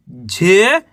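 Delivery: the single sound झे, stretched and rising; spelling aloud. Shown as a demonstration. Teacher sounding out the next letter, झे drawn out. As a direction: say झे alone, lifting the end. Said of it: "चलिए देखिए".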